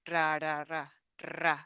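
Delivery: "ra, ra, ra" with tapped then rolled R; Spanish last R. Shown as a demonstration. Teacher showing the last R of hospedar, tapped and rolled. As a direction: tap the tongue on each "ra", rolling the last. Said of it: "the last R".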